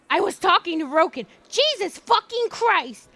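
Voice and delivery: mildly cranky imitation, slowing on the curse. Streamer imitating Richard talking to Roken, mildly cranky. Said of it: "this is how I know he's getting cranky".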